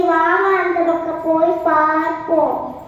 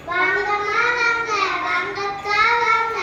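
singsong street hawker; 5 dB quieter than usual. Acted. Shopkeeper calling customers.

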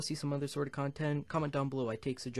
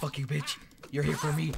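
angry yell; 5 semitones higher, 9 dB louder than usual. Real, not acted. Yelling at attacker.

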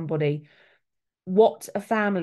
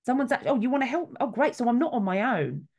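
relieved surprise; 5 semitones higher than usual. Retold or imitated. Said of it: "we then calm down and go".

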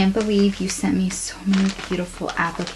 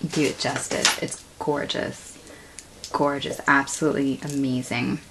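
awed hush; 5 semitones lower, 7 dB quieter than usual. Real, not acted. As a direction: lower and much softer, breathless awe. Awestruck over the charm.

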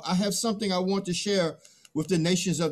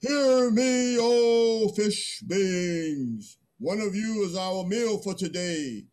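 grand calling out; 3 semitones higher, slower than usual. Acted. Man calls out to fish.

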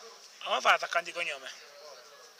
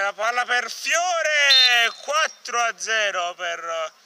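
drawn-out goal call; 4 semitones higher, 4 dB louder, much slower than usual. Acted. Calling a goal in commentary.

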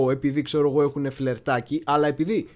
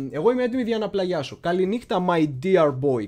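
reading the letter writer; 2 semitones higher than usual. Shown as a demonstration. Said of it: "θα το διαβάσουμε αυτό λεξί".

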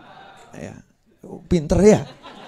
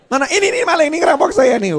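much higher, louder cry for help; mock alarmed shout; 11 semitones higher, 3 dB louder than usual. Debtor crying to neighbours that he is being robbed, high loud alarm. Pretend victim calls out to neighbours.

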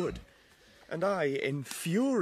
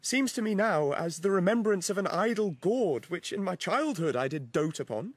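loud passionate declaration; 2 semitones higher, 6 dB louder than usual. Acted. Demetrius declares his love.

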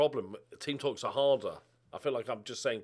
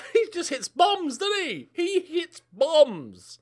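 laughing; 14 semitones higher, 8 dB louder, much slower than usual. Real, not acted. Laughing delight at striker.

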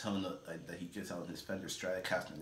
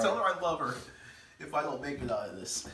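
high, loud dying words; wounded soldier gasping; 6 semitones higher, 5 dB louder than usual. Pretend. Mock last words before wing.

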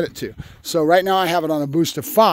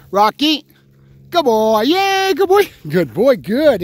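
high, louder happy dog praise; excited praise; 6 semitones higher, 4 dB louder, slower than usual. Real, not acted. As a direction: cheer him on like he won.

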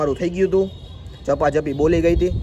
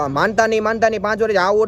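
raised voice; 5 semitones higher than usual. Retold or imitated. To the teacher at the government school, heated raised voice. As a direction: argue back hard at the school teacher. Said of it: "હું એટલા ઊંચા અવાજથી બોલ્યો".

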